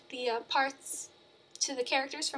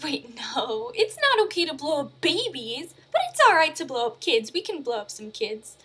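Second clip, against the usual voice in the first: mock studio exec; 3 semitones higher, 8 dB louder than usual. Disney execs reconsider the title.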